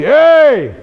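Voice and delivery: high, loud mock hollered greeting; imitating a loud friend calling out in a store; loud imitation. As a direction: bellow it like a brash old-timer. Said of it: "He talked like that".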